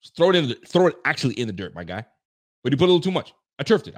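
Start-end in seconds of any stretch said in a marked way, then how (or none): 2.6-3.9 mocking. Mocking Josh's excuse, higher.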